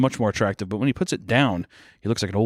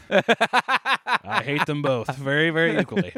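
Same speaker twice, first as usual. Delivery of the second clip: mock sincere; 5 semitones higher, slower than usual. Joking reply to a tease.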